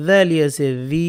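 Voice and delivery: final "জি" held long; "জি" with a prolonged ee vowel; one-alif lengthening. Shown as a demonstration. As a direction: spell "জালি আছে জি", stretching the last "জি". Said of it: "এক আলিফ টানতে হবে".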